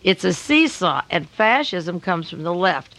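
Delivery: slow, measured emphasis on each phrase; deliberately slow. Real, not acted. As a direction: say it slowly so listeners take it in. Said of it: "I'll say this slowly for my listeners".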